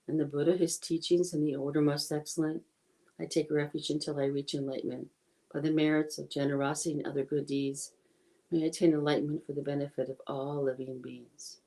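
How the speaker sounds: softly spoken, even prayer; prayer recitation. Real, not acted. Teacher saying the refuge prayer in English for everyone, softly recited. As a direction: recite it quietly as a devotional aspiration.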